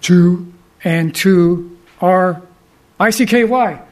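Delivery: parakeet impression. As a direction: count deliberately like a parakeet, then veer into spelling. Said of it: "the parakeet would say".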